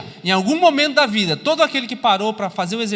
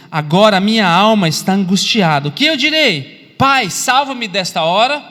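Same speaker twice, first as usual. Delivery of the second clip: anguished Jesus; 6 dB louder than usual. Acted. Jesus, troubled in soul, asks the Father, loud anguished plea. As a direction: cry out the prayer with full preaching force. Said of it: "Jesus falando assim".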